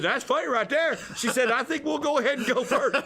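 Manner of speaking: high and loud, laughing while talking; wife cracking up at the story; laughing through it. Retold or imitated. Wife laughing as she decides to go first. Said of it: "She goes".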